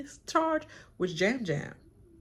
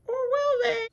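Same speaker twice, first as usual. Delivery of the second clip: high, loud mock-ominous tease; dramatic teaser; 6 dB louder than usual. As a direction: toss it up like a trailer cliffhanger.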